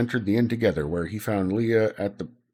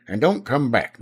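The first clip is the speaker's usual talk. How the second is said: calling out; 3 semitones higher, 4 dB louder than usual. Acted. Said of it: "Nicky called out after him".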